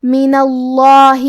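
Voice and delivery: اللہ with a thick, full lam, slow; heavy lam. Shown as a demonstration. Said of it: "تفخیم سے بھاری آواز میں پڑھیں گے". (اللہ کے لام کو بھاری آواز میں)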